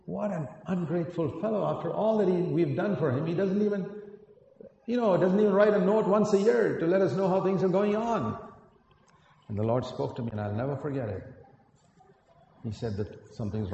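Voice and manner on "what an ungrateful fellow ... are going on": higher-pitched mock indignation; indignant grumble. Preacher recalling his thoughts about an ungrateful guest, mildly indignant. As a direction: replay the hurt grumble, a touch hammed-up.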